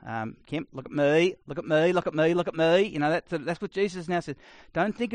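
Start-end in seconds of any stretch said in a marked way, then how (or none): 0.5-2.8 lightly voiced demanding mum, louder; Kath and Kim impression. Mother demands daughter look at her, light mock whine. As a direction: call for attention, rising each time. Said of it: "a bit like Kath and Kim".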